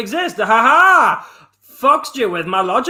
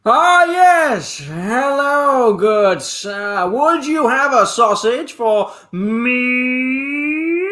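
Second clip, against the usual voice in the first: posh customer voice; 3 semitones higher, much slower than usual. Acted. Improv customer greets butcher.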